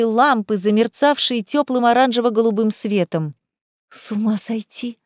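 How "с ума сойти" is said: hushed amazement; amazed. Acted. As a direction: marvel under the breath. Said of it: "удивлялась Лиза".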